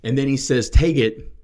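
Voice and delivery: loud, emphatic preacher delivery with weighty pauses; forceful preaching. Real, not acted. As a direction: drive each point home loudly.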